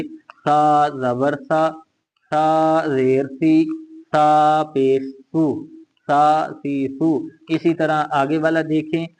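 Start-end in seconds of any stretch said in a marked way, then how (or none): 0.0-7.3 slow, drawn-out "सा", tongue touching the teeth; teacher's slow "सा सी सू" with the tongue against the teeth; tongue-to-teeth sa drill. Shown as a demonstration. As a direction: spell out "सा जबर सा" slowly, tip of tongue on the teeth. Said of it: "जबान दांतों के साथ लगा सा पढ़ेंगे".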